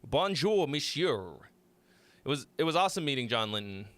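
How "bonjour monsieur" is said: playful put-on French accent. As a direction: try out a French greeting accent. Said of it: "That's a good French accent".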